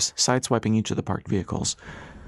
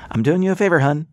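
brash retort; 7 semitones higher, 6 dB louder than usual. A narrator's reading. Pilot retorts to shouted protest.

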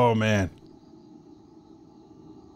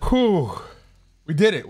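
excited cheering; 7 semitones higher than usual. Real, not acted. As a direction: push hard to finish, then celebrate. Finishing the pizza challenge.

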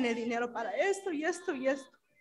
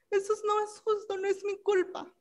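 angry; 7 semitones higher than usual. Retold or imitated. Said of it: "Jennifer vio que me enojé".

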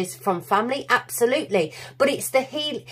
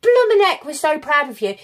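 universe cheering; 3 semitones higher, 4 dB louder than usual. Retold or imitated. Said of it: "The universe has said".

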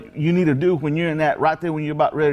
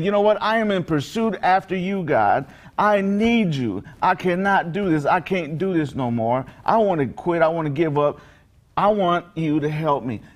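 retold desperate plea, pitched up at first; earnest plea; 2 semitones higher than usual. Preacher voices the blind man pleading with God, earnest retold plea. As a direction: press each need with mild urgency.

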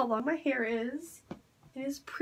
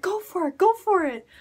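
urging; 5 semitones higher, 4 dB louder than usual. Retold or imitated. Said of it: "and she said".

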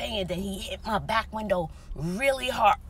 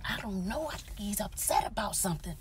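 sharp shh, then a hushed warning; frantic whispered shushing; urgent hushing whisper; 10 dB quieter than usual. Retold or imitated. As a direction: hush her before he hears. Whispering on phone.

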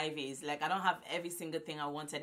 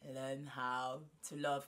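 slow teaching line; 3 semitones lower, much slower than usual. Shown as a demonstration. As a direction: spell it out slowly for them to repeat. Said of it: "Repeat after me".

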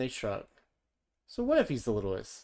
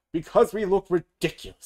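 all together; 7 semitones higher, 10 dB louder than usual. A narrator's reading. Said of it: "says everyone together".

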